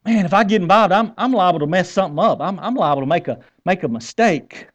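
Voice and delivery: put-on hesitant worrier with a Southern accent; good Southern accent. Reluctant helper afraid to get involved, Southern accent. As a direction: stammer the worry in a Southern accent. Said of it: "say this in my good Southern accent".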